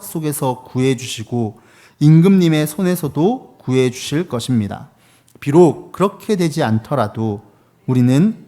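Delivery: measured, emphatic congregational reading; scripture read aloud. Real, not acted. Preacher leading the congregation in reading verses, measured proclamation. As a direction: lead a unison Bible reading with weight. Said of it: "함께 한 목소리로 읽겠습니다".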